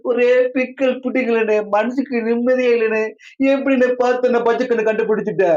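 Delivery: high-pitched comic moan to a friend; plaintive, high lament; whining complaint. Acted. Bablu whines to friend about wife.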